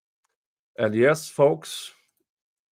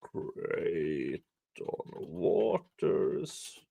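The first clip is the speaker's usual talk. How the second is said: whispered; 7 semitones lower, 12 dB quieter, much slower than usual. Real, not acted. Dramatic name drop.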